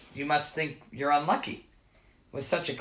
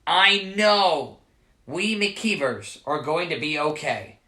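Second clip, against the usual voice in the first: reassuring father. Acted. Father comforts his son.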